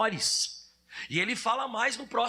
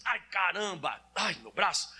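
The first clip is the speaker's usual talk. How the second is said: lower, slow muttered complaint; mild adult ouch; 4 semitones lower than usual. Retold or imitated. Preacher showing a grown man hurting his arm, lower and slow. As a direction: shrug off the pain like a grown-up. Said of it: "põe a mão até no braço e diz assim".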